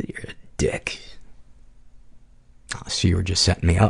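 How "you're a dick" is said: whispered, hushed, breathy radio DJ delivery. Replying to Paul's thanks, speak in the DJ voice. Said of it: "DJ voice".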